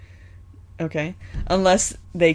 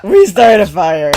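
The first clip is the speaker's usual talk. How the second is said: drawled hillbilly fire line; lazy Appalachian hillbilly drawl; 9 dB louder, slower than usual. Retold or imitated. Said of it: "I did a hillbilly voice".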